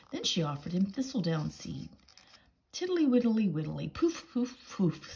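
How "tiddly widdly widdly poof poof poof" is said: higher, puffing toad voice. Acted. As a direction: huff it out like a jolly toad. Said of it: "said Mister Jackson".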